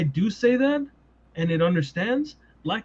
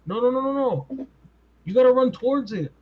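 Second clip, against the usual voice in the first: higher-pitched, rapid-fire objection; urging insistently; 8 semitones higher, faster than usual. Acted. Telling timid investigators to chase the noise, urgent mock protest. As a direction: urge them on with a higher, insistent voice.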